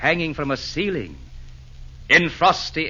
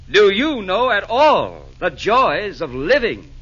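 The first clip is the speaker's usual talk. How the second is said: rousing; 7 semitones higher, 6 dB louder, slower than usual. Acted. Santa's rousing rhetorical climax.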